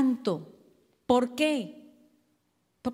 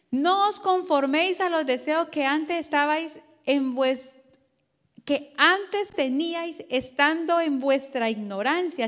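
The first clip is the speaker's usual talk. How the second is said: preaching scripture; slower than usual. Acted. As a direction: proclaim the verse to the congregation. Pastor reads scripture forcefully. (predicador leyendo la Biblia con fuerza)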